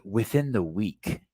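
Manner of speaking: drawn out for emphasis, imitating a grave warning; measured, deliberate mock urgency; slow, serious retelling. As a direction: stretch each word slowly, quoting a serious friend. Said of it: "He said it like that?".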